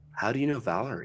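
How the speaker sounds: the calmest voice possible, utterly calm. After a table is thrown into the room, Vash asks about Valerie, Vash, utterly calm. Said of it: "in the calmest voice humanly possible".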